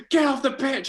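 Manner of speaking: put-on high, loud shout of an old man from a rooftop; retold furious shout from the pub owner; angry yell. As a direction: bellow it down from the terrace. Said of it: "terrace going".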